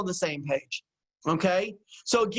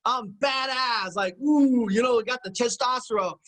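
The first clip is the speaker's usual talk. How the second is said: mock macho boast. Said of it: "they got the machismo".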